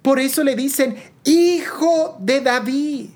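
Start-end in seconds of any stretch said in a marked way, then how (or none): 1.2-3.1 higher, drawn-out call, only lightly raised; mild acted cry. Preacher voices blind men hailing Jesus, mildly crying out. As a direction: call out the title slowly, stretching it. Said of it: "y le gritan".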